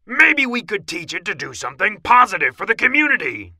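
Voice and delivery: loud, fast, high suggestion; eager mouse commander, quick and forceful; Big Cheese. A narrator's reading. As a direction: pitch the idea briskly and loudly. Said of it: "suggested the Big Cheese".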